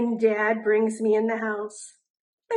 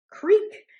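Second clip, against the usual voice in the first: creaky sound word; 10 semitones higher, 6 dB louder than usual. A narrator's reading. Sound effect words in story.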